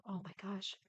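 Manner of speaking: after a slurp of hot tea; just sipped hot tea. Real, not acted. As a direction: react right after sipping hot tea. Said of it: "Sorry for the slurp".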